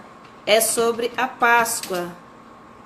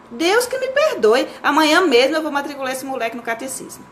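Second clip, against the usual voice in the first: scandalised scolding; 2 semitones higher than usual. Acted. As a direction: scold your child, appalled at the blasphemy. Mother scolds son over blasphemy. (mãe escandalizada repreendendo, encenado)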